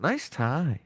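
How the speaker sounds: gently soothing compliment; lightly acted mysterious soother. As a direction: soothe him with a small compliment. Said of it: "he heard a soothing voice say".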